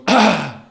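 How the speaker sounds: a loud imitated gasp after a swig; loud mock gasp. The businessman after swigging vodka, a loud mock gasp. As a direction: belt out the gasp like the burn just hit. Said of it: "He goes".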